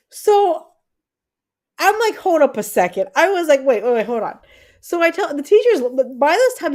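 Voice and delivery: telling it high and fast with disbelief; worked-up retelling. Real, not acted.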